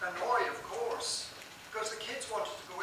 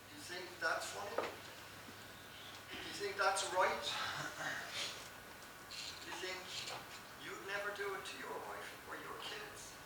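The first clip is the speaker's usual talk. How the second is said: quiet challenge; 5 dB quieter than usual. Real, not acted. Rhetorical challenge to congregation.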